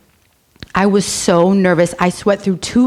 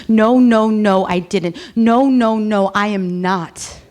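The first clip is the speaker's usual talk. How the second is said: repetitive denial; 3 semitones higher, slower than usual. Retold or imitated. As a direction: deny it over and over like a broken record. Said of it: "I denied everything like a broken record".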